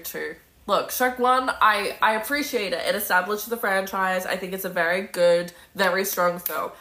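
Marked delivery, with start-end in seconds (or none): none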